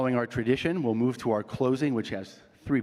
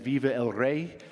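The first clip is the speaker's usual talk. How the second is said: American accent; 2 semitones higher than usual. Shown as a demonstration. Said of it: "I will say in my American accent".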